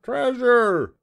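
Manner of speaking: high, loud pirate cry; pirate crew. A narrator's reading. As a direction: shout it like a crew of excited pirates. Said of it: "the pirates repeated".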